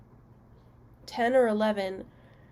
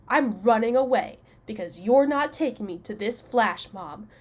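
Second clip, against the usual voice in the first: mock kid threat; 3 dB louder than usual. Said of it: "I was so mad".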